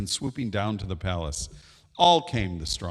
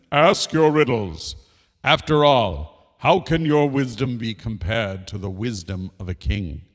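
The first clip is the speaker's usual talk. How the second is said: proud king; 4 dB louder than usual. Acted. Proud king challenges small bird.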